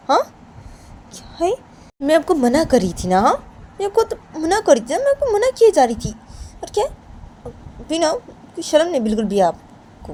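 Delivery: high, loud, shrill outrage; piercing high tirade of a furious girlfriend; Payal outraged. Acted. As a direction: scold him with no shame allowed. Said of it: "तो पायल पूनम को बोलती".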